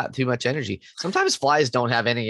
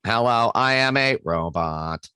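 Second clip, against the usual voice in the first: slow lightly robotic monotone; a hint of a robot, slow. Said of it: "your best robot dog".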